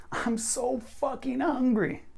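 very high, drawn-out "so fucking hungry"; strongest emphasis. Shown as a demonstration. Teacher demonstrates the strongest sentence, high emphatic "hungry". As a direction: wail every word up high, stretching "hungry". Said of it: "not only the strongest".

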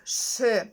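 «ш» as a hushing sh; hushing sound. Shown as a demonstration. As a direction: model an isolated «ш», like sh. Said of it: "читаються як шиплячий звук". (шиплячий звук «ш»)

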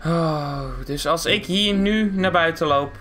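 low, slow interrogation; deep, measured voice of a wronged owner; suspicious car owner. Acted. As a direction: question him slowly, with long pauses. Car owner questioning Henkie.

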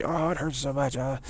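mock pained whine. Batter complaining after being hit, mock pained. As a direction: whine as if badly hurt. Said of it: "It's better than going".

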